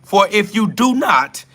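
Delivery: mocking a preachy warning, pitched high; mock preacher. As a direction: parody the self-righteous commenter. Mock-reading a scolding comment.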